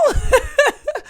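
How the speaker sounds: high burst of laughter; high, rippling chuckle; real laugh. Real, not acted. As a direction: laugh at your own remark. Laughs at not sleeping at all.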